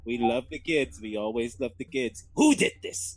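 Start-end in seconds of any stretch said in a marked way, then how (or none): 2.4-3.2 mock gasp. Pretending to be scared, kitten.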